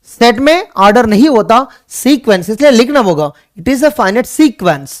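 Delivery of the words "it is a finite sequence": very slow, word by word; slow dictation. Shown as a demonstration. Teacher to students, repeating the definition slowly. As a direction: dictate each word for notes.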